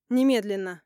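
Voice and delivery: loud commanding shout; barked order. Acted. Mother ordering Polina to call the police, loud commanding shout. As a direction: slam the word down as an order.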